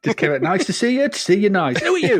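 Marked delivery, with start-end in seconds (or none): 0.4-1.8 high showman greeting; Bruce Forsyth catchphrase. Acted. Bruce appearing from a bubble, showman greeting. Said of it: "Bruce Forsyth and Ronnie Corbett". 1.8-2.2 very high incredulous question; mock astonishment. Onlooker meeting men from a time bubble, mock astonishment.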